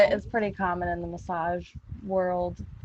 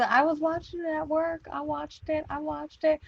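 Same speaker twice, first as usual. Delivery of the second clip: higher, mock-earnest boyfriend; lightly voiced boyfriend admitting it; 7 semitones higher than usual. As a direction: play the sheepish boyfriend, pitched up. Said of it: "he said".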